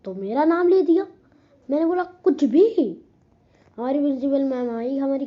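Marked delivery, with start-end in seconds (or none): 2.0-3.0 drawn-out scoff. Retold or imitated. Denies being blamed.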